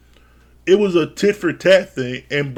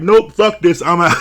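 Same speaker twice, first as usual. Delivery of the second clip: fed-up exit; 4 dB louder than usual. Retold or imitated. Zach quitting the screaming match, loud fed-up exit. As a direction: slam the door on the argument out loud. Zach storms off mid-fight.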